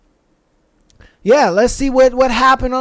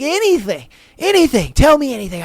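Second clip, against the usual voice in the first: put-on eager girlfriend; 4 semitones higher, faster than usual.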